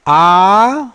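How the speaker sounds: short clipped आ as a demo vowel. Shown as a demonstration. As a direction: say आ short, one beat. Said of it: "जैसे".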